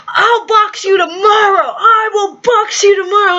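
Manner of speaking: hammed-up trash-talk shout; mock boastful shout. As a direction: bark out a playful boxing dare. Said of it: "he goes".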